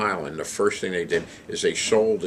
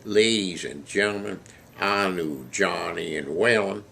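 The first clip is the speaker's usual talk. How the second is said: lightly imitated southern gentleman's accent. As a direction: address the room with a southern accent. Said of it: "he says in his southern accent".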